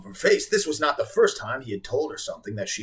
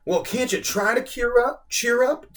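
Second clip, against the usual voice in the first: put-on pushy girl; 11 semitones higher, 3 dB louder than usual. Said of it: "Samantha suggested".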